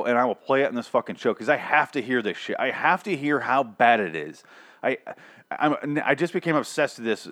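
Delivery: ordinary delivery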